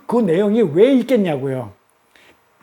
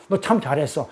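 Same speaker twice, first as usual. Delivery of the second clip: tender praise; 3 semitones lower, 5 dB quieter than usual. Acted. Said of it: "사랑스럽게 봤다니까요".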